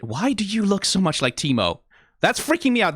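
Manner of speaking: genuinely weirded out, voice climbing; freaked-out surprise; surprised. Real, not acted. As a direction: pitch jumps up in real disbelief. Startled by character resembling Teemo.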